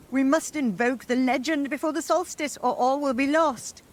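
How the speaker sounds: high urgent crone; urgent hag. Acted. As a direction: press them like an old witch. Urgent hag incantation warning.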